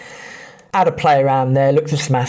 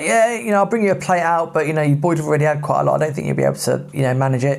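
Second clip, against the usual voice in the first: waitress voice; 3 semitones higher, faster than usual. Retold or imitated. Waitress quoted warning the boys.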